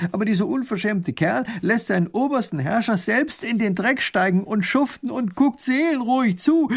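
working himself up; indignant rant. Acted. Duke rants about the farmer.

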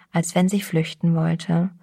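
plain reading voice

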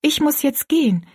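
put-on high girl's voice; departing girl. Rosalie telling the woman she must go, polite. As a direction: pitch it up, a polite leave-taking.

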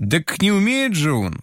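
put-on boy flares up in protest; flaring up. A narrator's reading. Boy flares up at the blacksmith, indignant outburst. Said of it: "вспыхнул Толик".

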